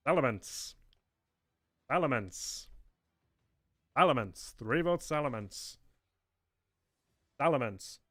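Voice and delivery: deliberately bad put-on accent, vote-reading host; Darkrai. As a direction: read the votes out in a hammed-up bad accent. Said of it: "do the worst accent for a Darkrai".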